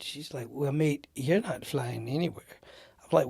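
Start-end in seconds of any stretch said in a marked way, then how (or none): 0.5-2.6 badly faked British accent; a rough stab at British; terrible British accent. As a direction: imitate a British airline worker, unconvincingly. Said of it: "It's a great British accent".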